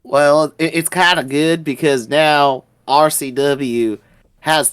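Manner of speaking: Jack, proud wrestler. Acted. New champion answers the ring interviewer, low proud promo.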